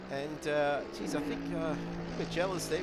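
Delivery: usual speaking voice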